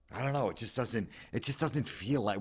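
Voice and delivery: mock a sulky Californian who misses winter; whiny Californian.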